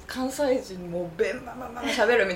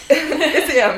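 Kansai dialect slip; 4 semitones higher, 11 dB louder, much slower than usual. Retold or imitated. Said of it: "ちょっとなんか漏れるじゃん、".

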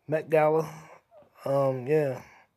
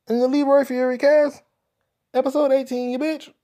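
show announcer; 7 semitones higher than usual. Pretend.

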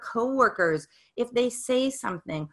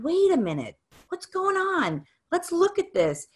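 put-on higher, gentle call to a frustrated child; gentle mother to child; 7 semitones higher than usual. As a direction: draw the kid in kindly. Mother calming frustrated son.

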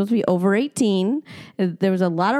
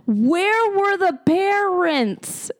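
whisper; 10 semitones higher, much slower than usual. Real, not acted. Whispered outrage over late kids.

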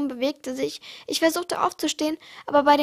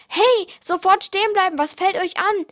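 higher, louder call to stop; angry man shouting stop; 4 semitones higher, 4 dB louder than usual. Acted. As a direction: yell after the fleeing animals. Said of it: "Der Mann rief".

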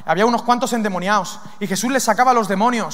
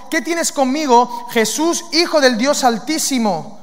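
mild loud cry; 2 semitones higher, slower than usual. Acted. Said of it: "clamando a gran voz dijo".

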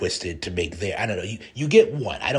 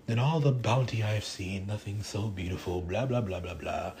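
dreamy soft murmur; 6 dB quieter than usual. Retold or imitated. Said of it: "And he's all like".

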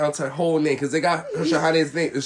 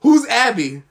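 polite voice; 4 semitones higher, 4 dB louder, much slower than usual. Retold or imitated. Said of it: "me and my boy Victor, like".

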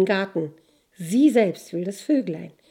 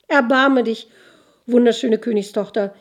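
tearful plea; 3 semitones higher, 7 dB louder than usual. A narrator's reading. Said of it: "bittet der Soldat unter Tränen".

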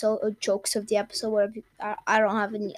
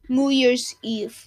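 slow punchline; much slower than usual. Real, not acted. Punchline delivered slowly.

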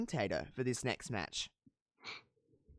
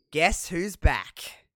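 slow hype tease; 2 semitones higher, 5 dB louder, much slower than usual. Retold or imitated. Announcing a wrestler's return.

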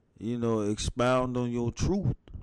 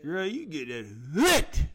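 put-on Jamaican accent; 3 semitones higher than usual. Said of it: "The Jamaican accent".

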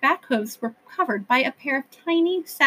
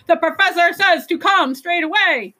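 Sidewinders yelling; 6 semitones higher, 4 dB louder than usual. A narrator's reading.

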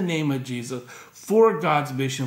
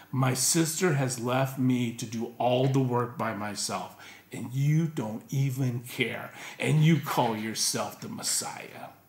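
resentful; 3 semitones lower than usual. Retold or imitated. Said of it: "she's just flat out resentful".

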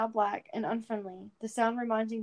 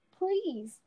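higher, pleading call; pleading shout; 9 semitones higher than usual. Acted. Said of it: "joined in on the shouting".

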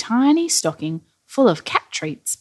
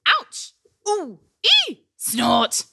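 high little yelps of a tumble; acted pained exclamations; 10 semitones higher, slower than usual. A narrator's reading. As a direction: voice each bump as a separate cry. Acting out Rudolph's rooftop tumble.

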